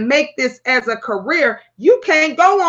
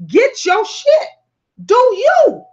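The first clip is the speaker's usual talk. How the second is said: excited squeal; 10 semitones higher, 3 dB louder, slower than usual. Real, not acted. Excited exclamation, high.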